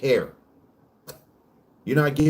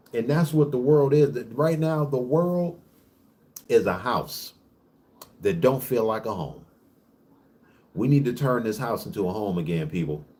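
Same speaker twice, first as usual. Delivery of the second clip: preaching. Real, not acted. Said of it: "Got me up in here preaching".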